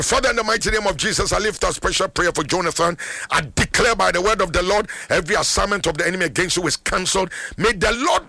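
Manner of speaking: declaring prayer in rapid bursts, dropping at the amen; fervent prayer. Real, not acted. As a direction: pray it out with authority, settling on amen. Prays for a caller on air.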